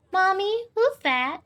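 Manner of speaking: put-on high, eager little kid voice; a curious little girl tugging at mom; small child.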